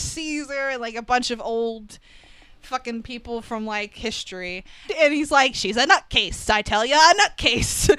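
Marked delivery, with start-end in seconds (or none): 5.5-7.9 louder, lightly exasperated imitation of the boss; mock angry captain. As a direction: insist like a movie police chief. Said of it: "the typical angry captain shtick".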